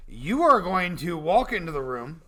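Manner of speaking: usual speaking voice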